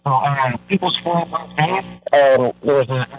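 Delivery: phone line breaking up; bad phone connection cutting out; radio breaking up. Real, not acted. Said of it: "You're breaking up a lot".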